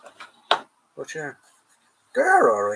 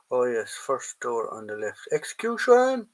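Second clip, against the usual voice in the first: Monty Python bit. Retold or imitated. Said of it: "Oh, Monty Python".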